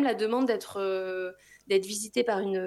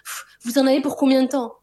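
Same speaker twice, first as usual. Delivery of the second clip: impatient psychologist; 4 semitones higher, 7 dB louder than usual. Retold or imitated. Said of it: "elle me dit".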